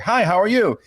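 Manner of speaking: chirpy British greeting; British accent. Retold or imitated. At the casting audition, a put-on British accent. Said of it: "launched right into this British accent".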